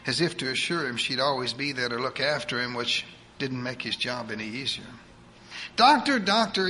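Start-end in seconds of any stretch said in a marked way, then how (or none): 5.8-6.7 put-on higher, fast voice of a bossy old churchwoman; eager church lady. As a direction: rattle it off like a pushy saint. Edith greets doctor.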